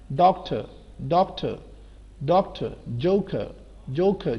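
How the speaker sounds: ڈاکٹر and جوکر ending in schwa, no r; silent final r. Shown as a demonstration. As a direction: drill ڈاکٹر as "dok-tuh", جوکر as "jo-kuh". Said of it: "جوکر نہیں ہوگا".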